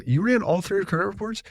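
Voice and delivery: incredulous check on what was done; retold skeptical question. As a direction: replay your doubt, pitch lifted. Retells suspicious question to lender.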